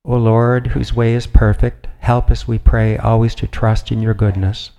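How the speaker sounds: formal, measured prayer read aloud; steady liturgical reading. Acted. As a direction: address the Lord in a firm, even voice. Reads a prayer from a book.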